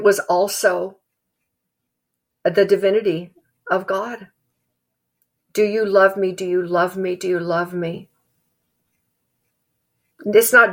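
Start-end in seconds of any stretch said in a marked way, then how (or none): 5.5-8.1 a repeated plea trailing off; fading repetition. Acted. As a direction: let the question sink away each time. Jesus asking three times, repeated.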